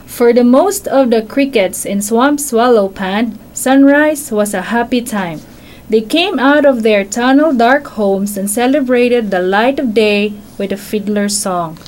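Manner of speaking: bedtime-story reading voice; reading to children. Acted. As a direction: read it to a child on your lap.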